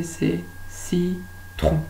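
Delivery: citron slow and soft; slow correct word. Shown as a demonstration. Teacher gives pupils the answer, slow and soft. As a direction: say citron slowly and softly as the answer. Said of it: "En réalité".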